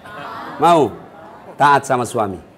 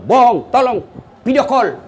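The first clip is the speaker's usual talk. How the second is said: nagging wife; 4 semitones higher than usual. Retold or imitated. Wife mocked demanding video call.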